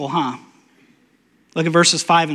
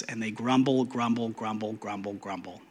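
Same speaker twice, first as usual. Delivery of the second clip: much softer and lower, dying away; fading grumble; 7 semitones lower, 13 dB quieter than usual. Acted. Preacher mimics the people grumbling, fading to nothing. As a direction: mutter grumble grumble until it vanishes.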